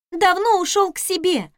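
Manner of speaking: a maid whining that the cook is gone; maid complaining. Acted. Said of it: "пожаловалась Раиса".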